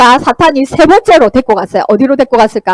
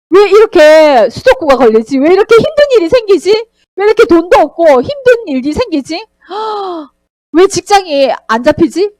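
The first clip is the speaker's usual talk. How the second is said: cunning Satan; 4 semitones higher than usual. Acted. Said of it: "하나님의 말씀을 교묘하게".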